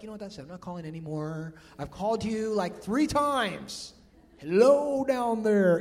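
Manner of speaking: an impatient God shouting down to a deaf listener; exasperated God. Retold or imitated. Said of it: "the Lord's like".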